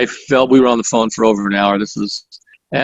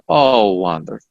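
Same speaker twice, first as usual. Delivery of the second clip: lightly imitated Russian accent, dropping lower at the end; 4 semitones lower than usual. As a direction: recall her words in a Russian accent. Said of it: "this Russian accent".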